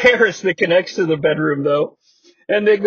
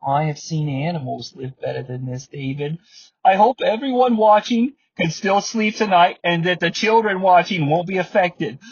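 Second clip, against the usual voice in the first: sad voice. Retold or imitated. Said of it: "the sad voice on".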